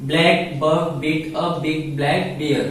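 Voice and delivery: very slow, every word laid out for students; slow example reading. Shown as a demonstration. Teacher reads the tongue twister slowly to the class. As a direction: read it slowly so the class hears each b. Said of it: "सब में क्या आता है".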